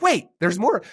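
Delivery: high, mock-upset complaint; a hint of a grumpy comedian whining; upset guest. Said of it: "He's like".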